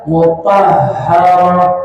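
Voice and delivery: slow "mutahharah" with airy, audible h; flowing breath. Shown as a demonstration. Teacher giving an example of ha, flowing breath. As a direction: let air run through the h in "mutahharah". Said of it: "itu dialirkan nafasnya".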